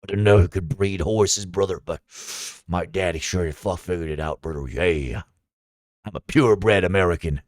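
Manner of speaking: low drawling redneck American, lots of "brother"; mock American redneck. Parodying a stereotypical American.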